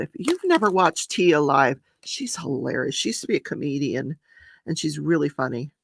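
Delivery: talking between crunchy bites; crunching while eating. Real, not acted. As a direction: crunch a biscuit while chatting. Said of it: "Sorry about my crunching".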